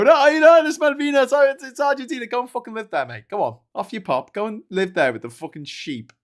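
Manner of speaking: high, loud mock protest voice; mocking Argentinians. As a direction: whine it like an indignant Argentinian. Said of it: "all these people in Argentina go".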